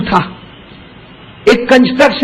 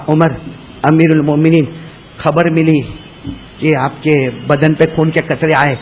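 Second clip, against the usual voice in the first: humble plea; 4 semitones lower than usual. Acted. Abbas humbly apologizes.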